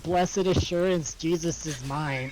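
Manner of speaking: flat, slow spoken hymn line; deadpan lyrics. Pretend. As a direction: recite it utterly deadpan. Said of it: "said the lyrics in an utterly deadpan voice".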